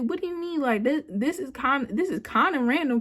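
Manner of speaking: retold upset. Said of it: "I was very upset".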